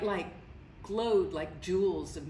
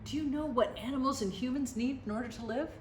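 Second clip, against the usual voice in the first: much higher, excited porcupine voices, far from a whisper; 9 semitones higher than usual. A narrator's reading. Porcupines urging the man, much higher excited squeal. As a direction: squeal it up high and urgent. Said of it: "whispered to the man".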